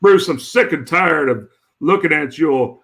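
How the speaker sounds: lightly voiced Southern accent, mocking a friend; a hint of a Southern accent. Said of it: "that's a Southern voice".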